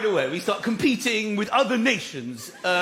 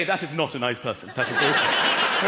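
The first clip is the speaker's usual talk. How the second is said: disapproving mutter; 7 semitones lower than usual. Retold or imitated. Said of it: "you look at them and you say".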